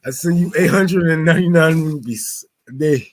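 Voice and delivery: light fake Russian accent as a donor; joking Russian donor voice; playful Russian accent, partly dropped; mock Russian accent. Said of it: "my Russian accent".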